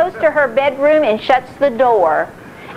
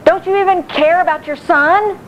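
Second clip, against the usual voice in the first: indignant mother; 7 semitones higher than usual. Retold or imitated. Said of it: "And I said".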